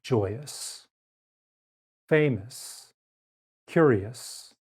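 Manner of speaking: "ous" in "famous" said as a weak uh; careful word list; schwa demo words. Shown as a demonstration. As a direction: model each word slowly. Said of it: "makes the uh sound".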